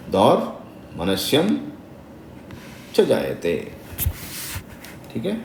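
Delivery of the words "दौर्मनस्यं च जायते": दौर्मनस्यं drawn out syllable by syllable; slow recitation. Shown as a demonstration. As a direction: recite it slowly for the students. Teacher slowing a verse. (धीमा पाठ)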